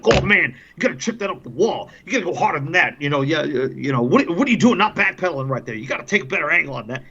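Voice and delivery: put-on running commentary in a New York accent; thick New York accent. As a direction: imitate a New Yorker excitedly critiquing the play. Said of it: "in that thick New York accent of his".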